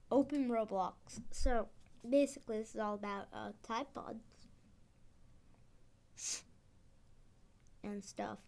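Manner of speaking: talking around an expander; words through a mouth appliance; mouth full. Real, not acted. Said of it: "I just had something put in my mouth".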